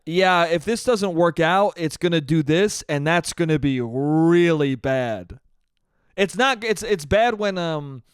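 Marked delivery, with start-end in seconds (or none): 0.1-5.4 mock doctor. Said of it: "You don't wanna hear a doctor say that".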